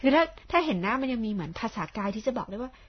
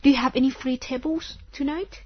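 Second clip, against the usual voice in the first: slow model phrase; 4 semitones higher, 4 dB louder, much slower than usual. Shown as a demonstration. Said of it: "อย่างเงี้ยนะคะ".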